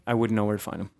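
low, hushed mystery; a hint of mystery; mysterious. Shown as a demonstration. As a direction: make it sound secret and mysterious.

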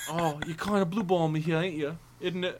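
soft mock-Cockney grumble; Michael Caine. Playing the actor complaining to co-host, soft mock-Cockney. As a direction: complain lightly as an English film star. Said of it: "we're just talking about Michael Caine now".

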